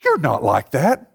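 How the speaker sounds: high, doting mom's voice calling his name; imitating his mom. Mom reassuring her son in small group, high and doting. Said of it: "Here's my mom in small group".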